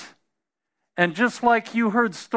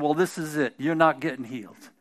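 taunting devil; 4 semitones lower, 4 dB quieter than usual. Retold or imitated. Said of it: "the devil spoke to him and said".

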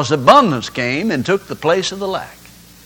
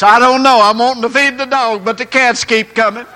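higher-pitched comic protest; mock helpless reply; 4 semitones higher than usual. Man explaining the cats to his neighbor, mock bewildered. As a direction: play the puzzled cat caller.

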